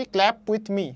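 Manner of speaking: slow, with the weight on "clap"; stress on CLAP. Shown as a demonstration. Teacher showing the main word, stress on "clap". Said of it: "এখানে stress কিন্তু পড়তেছে ক্ল্যাপে".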